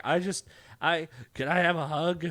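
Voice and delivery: lightly imitated drunken plea; drunk guy. Podcaster imitates drunk man asking for a hug, lightly slurred drunk. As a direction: play a needy drunk, only lightly. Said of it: "he's so drunk, he's like".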